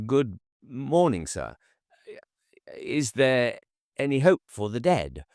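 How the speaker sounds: put-on keen young preacher at the door; bright earnest young man. A narrator's reading. Young missionary greeting Hashiva at the door, bright and eager. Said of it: "bright and full of conviction".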